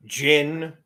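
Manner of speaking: gin, as in the drink, for jian; mispronounced jian. Retold or imitated. Quoting how people mangle the sword's name, mispronounced as gin. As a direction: say gin with a hard English j and no middle vowel. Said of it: "I've heard it pronounced".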